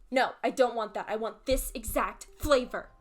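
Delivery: imitating the customer's insistence. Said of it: "she was just getting so angry".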